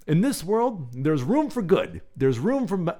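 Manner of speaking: lightly voiced Obama, slow fatherly cadence on room; Obama impression. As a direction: loose Obama-style delivery to a son. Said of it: "I don't know why I'm doing an Obama impression".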